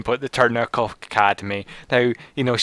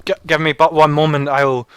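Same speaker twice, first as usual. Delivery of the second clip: eager townsperson voice; 5 semitones higher, 8 dB louder than usual. Acted.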